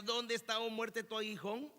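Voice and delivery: mildly mocking taunt; sarcastic question. Preacher quotes the apostle taunting death, mildly sarcastic. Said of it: "le pregunta de manera sarcástica".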